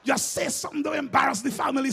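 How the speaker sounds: urging under breath. Retold or imitated. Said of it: "I'm saying to myself".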